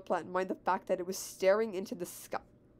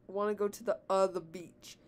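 hesitant, with "uh" before "the beach"; stuttering. A narrator's reading. Mario asks Peach to the beach, stumbling on "the, uh, the". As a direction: stumble on "the", fill with "uh". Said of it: "They're stuttering".

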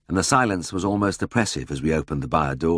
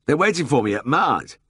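bewildered protest; 9 semitones higher, 3 dB louder than usual. A narrator's reading.

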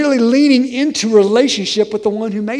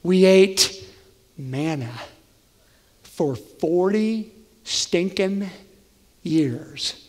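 grumbling; 2 semitones lower, 4 dB quieter, much slower than usual. Retold or imitated. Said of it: "might have been like".

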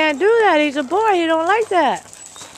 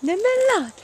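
voicing the dog; 4 semitones higher, much faster than usual. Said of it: "Jax said".

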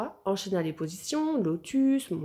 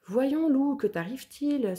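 astonished; 5 semitones higher than usual. Acted. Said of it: "souffla Louve stupéfaite".

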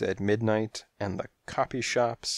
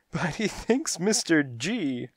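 high cat thug voice; protesting henchcat; 8 semitones higher than usual. A narrator's reading. Thug cat argues with his boss, protesting. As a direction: object in a high goon's voice.

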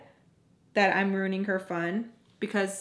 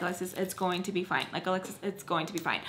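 soft, quick reassurance, lightly acted; calming; 5 dB quieter, faster than usual. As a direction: imitate a friend soothing someone. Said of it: "trying to calm me down".

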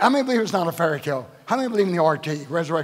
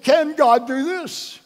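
slow, higher, doubting "Can God do this?"; mocking doubters; 8 semitones higher, 5 dB louder, much slower than usual. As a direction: drag out the doubters' sneering question. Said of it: "Then they said".

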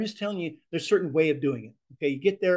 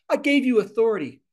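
higher, forceful rebuke ending on a punchy boom; firm command; 5 semitones higher than usual. Shown as a demonstration. Teacher demonstrating a rebuke of fear. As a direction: command it out with full conviction. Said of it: "You need to understand what is being said there".

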